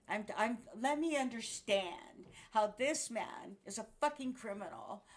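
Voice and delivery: loud, indignant outburst; angry rant. Real, not acted. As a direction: let the outrage spill out. Ranting angrily about an arrest.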